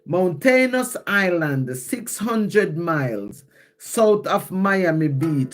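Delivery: measured verse, word by word; slow poem reading. Real, not acted. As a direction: read the poem line slowly and clearly. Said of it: "I'm gonna read it slow".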